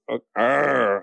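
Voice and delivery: half-hearted "arr" growl; reluctant mock growl. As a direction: growl as if forced to. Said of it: "put your hands on the cage and go".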